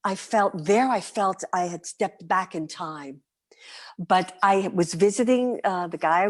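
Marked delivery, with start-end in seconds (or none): 0.9-3.2 whispered aside. Real, not acted. Reflective aside.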